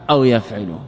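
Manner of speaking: يفعل said yaf'ilu, with i after the ayn; kasra on the ayn. Shown as a demonstration. Teacher listing the three cases, kasra demonstration. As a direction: give يفعل an i in the middle, yaf'ilu. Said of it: "بكسر العين".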